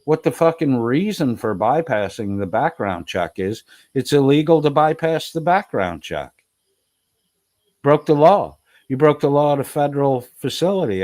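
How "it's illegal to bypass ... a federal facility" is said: angry rant. Real, not acted. Ranting at Todd on stream.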